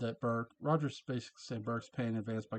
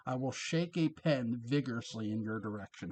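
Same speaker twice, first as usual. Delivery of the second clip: Roger impersonation. Retold or imitated. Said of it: "That's my Roger impersonation".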